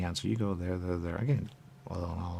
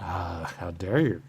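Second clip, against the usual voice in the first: slow, louder how dare you; mock outrage; 6 dB louder, much slower than usual. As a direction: drag it out indignantly. Quoted outraged figure.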